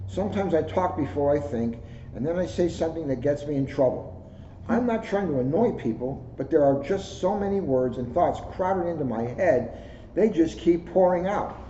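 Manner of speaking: gentle storybook read-aloud; reading to children. Acted. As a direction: read it like story time for kids. Reads a kids' book aloud.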